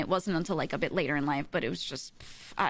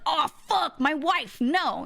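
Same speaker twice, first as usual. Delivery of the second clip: high, louder mock-panicked Raoul; 7 semitones higher, 4 dB louder, slower than usual. Raoul learning the Phantom took his wife, mock panic. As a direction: play Raoul freaking out.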